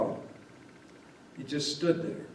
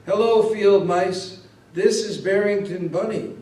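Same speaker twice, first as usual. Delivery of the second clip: blurted out, louder and higher; a bunny crying out to the field mice; tearful blurt; 5 semitones higher, 4 dB louder than usual. A narrator's reading. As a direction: call out suddenly through tears. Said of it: "blurted out through his tears".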